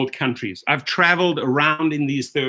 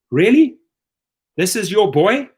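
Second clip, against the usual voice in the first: incredulous outburst; 4 semitones higher, 4 dB louder than usual. Real, not acted. Ranting at Uber's investors.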